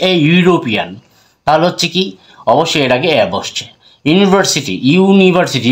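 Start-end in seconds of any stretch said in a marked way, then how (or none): 0.1-0.9 ইউরোপিয়ান opening on a clear "you" sound; "you" sound shown. Shown as a demonstration. Teacher showing viewers the vowel sound, ইউরোপিয়ান begun clearly as "you". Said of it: "ইউ এর মতো হচ্ছে". 4.1-5.7 ইউনিভার্সিটি with a raised, clear "you" opening; "you" sound shown. Shown as a demonstration. Teacher repeating an example for viewers, ইউনিভার্সিটি begun with a clear "you". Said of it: "ইউ এর উচ্চারণ ইউ এর মতো হচ্ছে".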